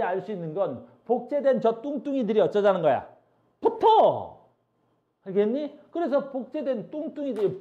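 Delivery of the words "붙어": loud, high call to stick together; playful shouted command; mock command. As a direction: order them together, louder and higher. Voices a command to chromosomes.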